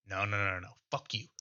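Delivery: a lightly voiced petulant Vulture, repeating himself; stubborn kid covering his ears; childish tantrum. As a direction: Vulture refusing to hear the player's bird lecture, mild sulky tantrum. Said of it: "you sound like".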